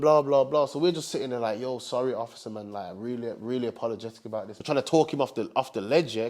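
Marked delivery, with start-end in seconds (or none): 1.6-4.6 softer, lower, sheepish pleading; quiet mock apology to the officer; meek apology. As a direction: talk the officer down, small and apologetic.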